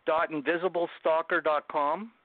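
slowly spelling out the web address; slow dictation. Real, not acted. Host asks where to buy the book, he dictates the address slowly. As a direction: dictate it slowly and clearly so listeners can write it down. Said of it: "Can you please share the places?".

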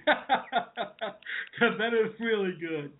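slow, drawn-out put-on chuckle through the words; laughing at own joke. Throwing in a laugh for viewers after his joke, slow chuckling. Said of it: "I threw in a laugh for you guys there".

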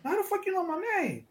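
very high, incredulous mock demand; retold astonishment. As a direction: act baffled that a stranger knows you. Acted shock at stranger knowing him.

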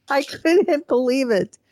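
incredulous, drawn out through real laughter; laughing. Real, not acted. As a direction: laugh helplessly at how absurd it is. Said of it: "I mean, I'm laughing".

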